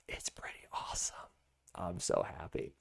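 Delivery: soft, breathy whisper under the breath; whispered aside. Real, not acted. Telling viewers about his chicken coop, a soft whisper. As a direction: let it slip out as a secret. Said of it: "whispered aside to viewers".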